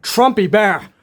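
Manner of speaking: incredulous second take; shocked naming. Real, not acted. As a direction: gasp out "Trumpy Bear" in disbelief. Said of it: "Oh my, oh my God".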